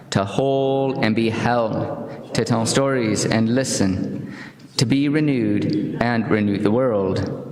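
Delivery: slow, solemn unison reading; covenant reading. Acted. Congregation reciting the covenant together, slow and solemn. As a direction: read it together, slow and even.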